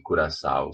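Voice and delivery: "curaçao" ending in an un-nasal "sau"; wrong pronunciation. Shown as a demonstration. Teacher contrasting it with coração, wrong pronunciation. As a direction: say "curaçao" like the drink, ending "sow". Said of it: "it's not good to say that".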